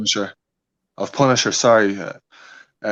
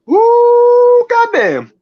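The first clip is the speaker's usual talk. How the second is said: put-on high, loud whooping American accent; playful American holler, for laughs; 12 semitones higher, 6 dB louder, slower than usual. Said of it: "You got a good American accent".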